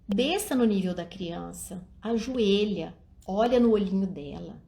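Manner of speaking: ordinary delivery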